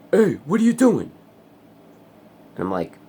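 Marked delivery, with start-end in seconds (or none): 0.1-1.1 high yelled angry neighbour; shrill-free high mock yell of the neighbour. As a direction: yell it up high like an outraged guy. Neighbour's angry quote acted out.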